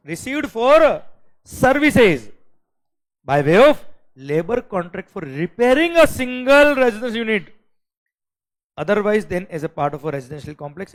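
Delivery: loud slow exam dictation; slow question reading. Shown as a demonstration. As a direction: spell the question out for the class. Teacher reads question aloud.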